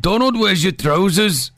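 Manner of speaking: slow, imperfect Scottish copy; attempted Scottish accent. Shown as a demonstration. Host repeating after co-host, tentative Scottish accent. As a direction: carefully imitate a Scottish accent. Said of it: "Say, say it again".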